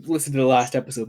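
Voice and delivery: quick, rote nagging plea; nagging repeat. Retold or imitated. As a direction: rattle it off like a broken record. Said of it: "I don't wanna spend this entire episode just going".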